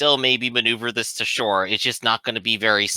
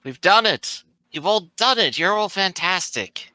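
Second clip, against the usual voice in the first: high-pitched, elated congratulations; acted triumphant excitement; jubilant cheer; 6 semitones higher than usual. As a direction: celebrate with the whole crew. Character celebrates sighting land.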